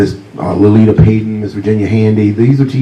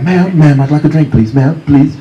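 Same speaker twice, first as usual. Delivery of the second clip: polite Englishman; 6 semitones higher than usual. Retold or imitated. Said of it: "very U K about it".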